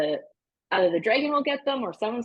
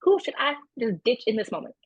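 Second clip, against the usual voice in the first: whisper yelling; 5 semitones higher, faster than usual. Acted. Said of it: "whisper yell back to him".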